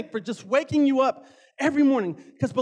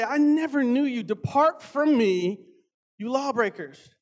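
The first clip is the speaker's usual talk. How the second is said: scripture reading. Acted. Pastor reads scripture to the church, solemn preaching. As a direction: read out with preaching weight.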